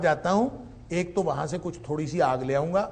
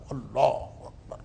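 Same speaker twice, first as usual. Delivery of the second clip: awed murmur; 4 semitones lower, 5 dB quieter, much slower than usual. Real, not acted. Awe at God's words.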